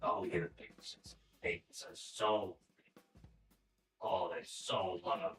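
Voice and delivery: mom's raspy voice. Retold or imitated. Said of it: "why you sound like you've been smoking".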